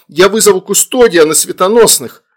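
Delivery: high, loud threat; threatening mother. A narrator's reading. Mother threatens demon with custodian, angry. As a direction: hurl the warning at him.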